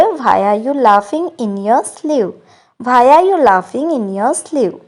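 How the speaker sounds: slow, clear English model line; slow model sentence. Shown as a demonstration. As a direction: spell it out gently for learners. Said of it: "So English में हम कहेंगे". (धीरे और साफ़ अंग्रेज़ी वाक्य)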